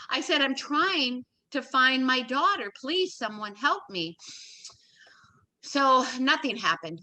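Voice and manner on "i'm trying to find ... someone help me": slow, drawn-out pleading; retold desperate plea. Mother begging an operator for help, retold desperate plea. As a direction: plead slowly without raising the voice. Retelling plea to find her daughter.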